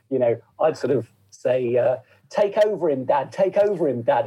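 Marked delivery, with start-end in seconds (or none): 2.3-4.3 put-on young son. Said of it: "apparently I would keep saying".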